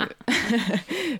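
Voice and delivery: mustache twirling villain cackle; a short scheming villain laugh; evil laugh. Acted. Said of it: "rire machiavélique".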